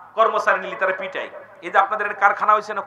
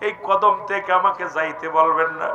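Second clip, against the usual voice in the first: melodic lament, stylised weeping; preacher imitating a weeping devotee; acted tearful plea. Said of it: "হাওমাও করে কেঁদে দিছে".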